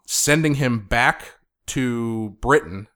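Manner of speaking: ordinary talk, nothing marked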